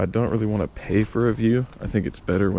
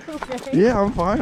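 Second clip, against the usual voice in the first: shaky laugh. Real, not acted. Laughs off near fall.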